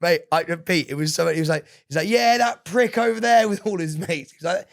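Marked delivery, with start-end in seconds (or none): 2.1-3.5 put-on loud, high, drawn-out jeer in a band singer's accent. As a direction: imitate a taunting lad in a band singer's accent. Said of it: "accent that he has".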